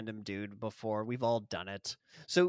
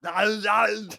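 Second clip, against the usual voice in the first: urgent hush; 7 semitones higher, 6 dB louder than usual. Pretend. Friends hush the mocker.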